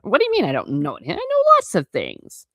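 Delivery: put-on a huffy eleven-year-old, rushed then squeaking up; indignant schoolboy. Eleven-year-old insisting he knows things, indignant schoolboy. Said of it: "typical schoolboy reaction".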